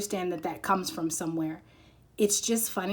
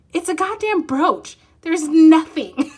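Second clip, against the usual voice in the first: laughing put-down; 8 semitones higher, 10 dB louder, slower than usual. Pretend. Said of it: "And I'm like".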